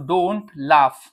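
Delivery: drawn-out don't laugh; slow model phrase. Shown as a demonstration. Teacher modelling don't laugh slowly for students. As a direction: say it slowly for learners. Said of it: "teacher models slow phrase".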